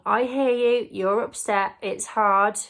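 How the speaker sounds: calm reassuring. Shown as a demonstration. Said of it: "You are saying".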